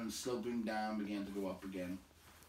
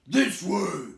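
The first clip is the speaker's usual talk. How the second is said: far higher and louder goblin yell; 11 semitones higher, 16 dB louder than usual. A narrator's reading. Goblins searching for Bilbo, yelling. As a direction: screech the direction like a goblin. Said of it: "some yelled".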